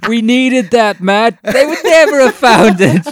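high, loud, laughing mock wife voice; missus scolding. Wife scolding Matt for flushing the stash, shrill laughing mock rant. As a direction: shriek it like an outraged wife through laughter.

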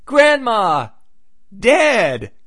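high, loud hammed-up cry of "Grandma, dead!"; mock yell. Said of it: "something you yell out".

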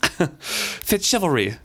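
slow, drawn-out stern call; stern lady. Acted. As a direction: call his name like a displeased noblewoman. Patience summoning Fitz sharply.

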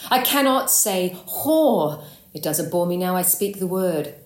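anguished Shakespearean protest; dramatic outburst. Acted. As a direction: burst out on the unspeakable word. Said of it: "it comes in straight away".

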